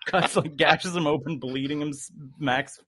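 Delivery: usual speaking voice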